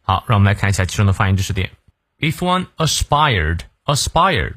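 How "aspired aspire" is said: "aspire" drawn out with a clear long I; long I vowel. Shown as a demonstration. Teacher showing learners the vowel, "aspire" with long I. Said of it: "注意它的元音I".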